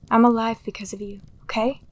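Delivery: tender whispered thanks; reassuring whisper. Acted. Delilah reassuring guilty Atlas, tender whisper. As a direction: whisper it to calm him.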